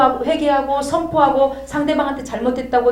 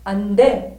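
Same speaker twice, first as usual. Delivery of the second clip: imitating a blunt, cutting no; abrupt mock refusal; curt refusal; 3 dB louder, much slower than usual. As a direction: act out a flat-out refusal. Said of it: "단칼 무자르듯이".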